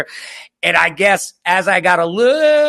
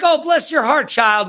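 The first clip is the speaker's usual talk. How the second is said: Southern bless your heart; 8 semitones higher than usual. Retold or imitated. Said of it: "like in the South".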